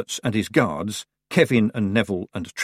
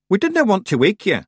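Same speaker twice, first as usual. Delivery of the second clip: put-on Scottish accent; 10 semitones higher, 5 dB louder than usual. Nac Mac Feegle voice.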